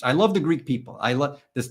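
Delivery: a hint of a Trumpy rally brag; mild put-on Trump voice; Trump impression. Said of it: "That was very Trumpy".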